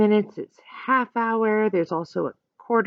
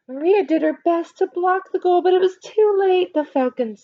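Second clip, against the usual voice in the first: excited narration; 9 semitones higher, 5 dB louder than usual. A narrator's reading. Exciting goal moment narration.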